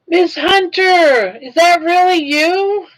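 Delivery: high, slow, thrilled gasp of recognition; delighted surprise. Real, not acted. Surprised to see old coworkers online.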